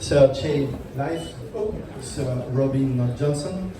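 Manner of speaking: slow, deliberate French-accented English, each name spelled out; careful French-accented English names. Real, not acted. Host calling honourees up to the stage, slow French-accented English. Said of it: "sorry for my bad English accent when I try to pronounce your name".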